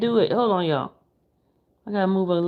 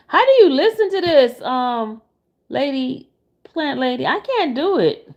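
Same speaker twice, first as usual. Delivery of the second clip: exasperated outburst; 4 semitones higher, 5 dB louder than usual. Real, not acted. Complaining about slow video.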